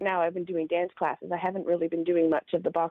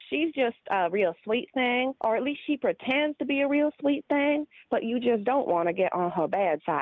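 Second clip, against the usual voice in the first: Southern accent; 4 semitones higher than usual. Shown as a demonstration. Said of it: "My Southern".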